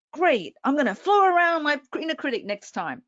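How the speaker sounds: mildly sarcastic imitation of a listener; mock skeptic. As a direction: scoff like a doubtful student.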